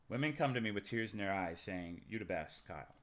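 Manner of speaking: low, soft deadpan boast; hushed self-important murmur; mock smug confidence.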